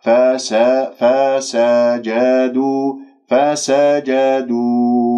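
very slow chanted "فسجدوا", every fatha open and even; measured syllable-by-syllable "فسجدوا"; clear fatha vowels. Shown as a demonstration. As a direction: recite "فسجدوا" beat by beat with equal short vowels. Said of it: "شوف الحركات الفتحة".

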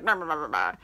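low run of blustering nonsense syllables; mock grumbling. Rich shooters with monocles, mock grumbling.

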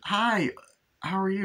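high, sing-song mock girlfriend; lightly voiced cheery woman; sweet greeting. Girlfriend voice imitated.

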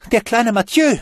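high, loud panicked cry; frightened call. Acted. Juliette calls to Bruno in panic. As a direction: shout it out in alarm. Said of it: "rief sie".

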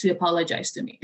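a laugh on the last line of the rule. Real, not acted. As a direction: land the punchline laughing. Punchline with laugh.

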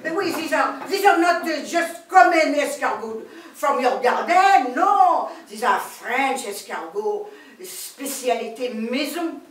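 hammed-up French lady accent; comic French accent. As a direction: introduce yourself as a grand Parisian lady. French lady explains snail method.

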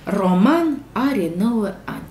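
Roman are nouă ani read slowly, word by word; teacher models the sentence slowly. Shown as a demonstration. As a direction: read it slowly so children can follow. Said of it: "Propoziții".

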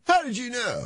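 high, soft mock astonishment; mock amazed. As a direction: gasp it in fake amazement. Seance bit, mock amazement.

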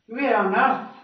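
"Where on earth?" with a high rise on "earth"; emphatic surprise. Shown as a demonstration. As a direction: lift "earth" up, amazed. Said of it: "show the feelings of irritation, surprise".

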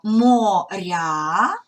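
Моря with the р softened and merged into я; soft merged r. Shown as a demonstration. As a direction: say Моря with a soft р flowing straight into the vowel. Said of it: "слово моря, р зливаємо з йотованим".

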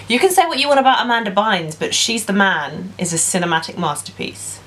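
mock-serious praise; deadpan overstatement; sarcastic. Real, not acted. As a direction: sing its praises with tongue in cheek. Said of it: "I hope my sarcasm came through".

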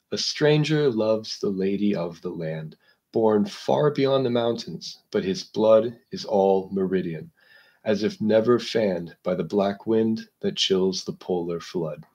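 slow, hushed recital of verse; poem reading. Acted. Lecturer reciting Byron's stanza to the class, slow and hushed. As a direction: let each line of the stanza settle, slowly.

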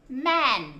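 "man" run together as one syllable; blended whole word. Shown as a demonstration. Teacher finishing the spelling for children, "man" blended whole. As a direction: join "m" and "an" into "man". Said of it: "đang học cách đánh vần".

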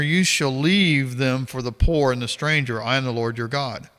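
measured, formal Bible reading voice; scripture reading. Acted. Reading Leviticus aloud to viewers, formal scripture reading. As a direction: read the verses out steadily, like a passage at church.

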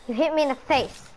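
mad. Pretend. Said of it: "I'm mad".

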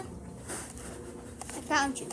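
slow, creepy whisper. Real, not acted. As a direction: whisper it slowly to spook her. Finds grandma hiding.

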